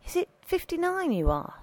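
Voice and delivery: high-pitched, gentle question; said softly. A narrator's reading. Priest asking his old friend's age, softly. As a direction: ask it gently, lifted in pitch. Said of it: "Father Nutty said softly".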